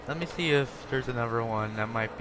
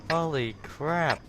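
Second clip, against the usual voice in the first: amazed; 3 semitones higher, slower than usual. Real, not acted. Gamer sees wrecked tank.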